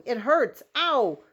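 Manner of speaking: high, loud pained cries; yelling in pain. Acted. Patrick still yelling from the tiny gunshot wound. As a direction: wail about the sting. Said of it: "Patrick kept yelling".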